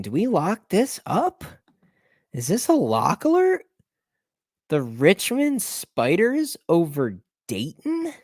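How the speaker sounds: high, slow, teasing build-up to the lock call; playful hype. Acted. Bettor hyping viewers about a Richmond lock, high and drawn out. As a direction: stretch it out like announcing a big reveal.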